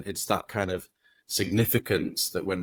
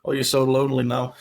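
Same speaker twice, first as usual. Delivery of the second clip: higher, anxious voicing of a nagging thought; worried inner voice; 5 semitones higher, 5 dB louder, faster than usual. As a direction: voice the worry a bit higher and louder. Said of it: "normally worried voice".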